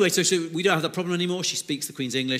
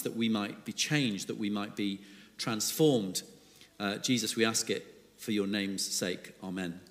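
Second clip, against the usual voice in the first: prayer; 3 semitones lower than usual. Real, not acted. Preacher praying to the Father before his sermon, hushed prayer. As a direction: pray gently, letting the voice sink towards the end.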